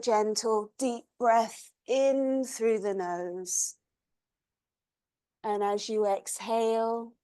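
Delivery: calm, unhurried yoga-teacher voice; guided meditation. Acted. Yoga teacher settles class into their bodies, guided meditation. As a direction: settle them gently, pausing between instructions.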